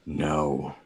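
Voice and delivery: lightly voiced raven refusing; a single drawn correction from the bird; Agfa. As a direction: say it as the solemn raven familiar. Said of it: "Agfa goes".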